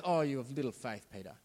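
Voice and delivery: a hint of a sighing, talking-down rebuke; mock condescending Jesus. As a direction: imitate Jesus lightly looking down on Peter. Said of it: "It's like he's been condescending".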